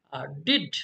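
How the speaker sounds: "ডিড" set off as the stressed beat after a light "আর". Shown as a demonstration. Teacher marking the next foot, stress on "ডিড". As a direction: land on "ডিড". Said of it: "ডিডটাকে আমি stress দিলাম".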